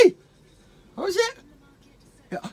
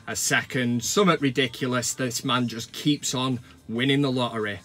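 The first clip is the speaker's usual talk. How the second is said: mock emotional; 6 semitones lower than usual. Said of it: "Sorry, I'm choking up".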